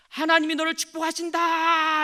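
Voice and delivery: high, loud called-out blessing. Acted. Boy shouts a blessing from the peak, loudly. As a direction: call it out across the mountains. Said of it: "크게 한번 얘기해봐".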